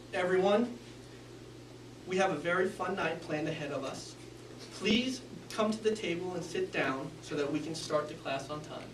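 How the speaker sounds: flat and soft, on one or two notes; monotone. Shown as a demonstration. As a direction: drone it, no emphasis. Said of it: "very monotone, using only one to two notes".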